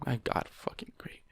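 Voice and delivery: unvoiced sarcastic whisper. Real, not acted. Reader muttering at the story, whispered. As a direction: breathe it out under your breath. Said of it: "reader reacts in whisper".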